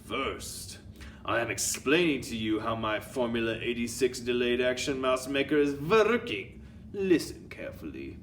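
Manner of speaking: commanding witch with a put-on accent; Grand High Witch. Grand High Witch addressing her witches, commanding put-on accent.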